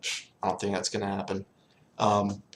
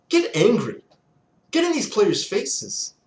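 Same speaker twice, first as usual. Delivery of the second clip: angry yell; 10 semitones higher, 3 dB louder, slower than usual. Real, not acted. Ranting at head coach.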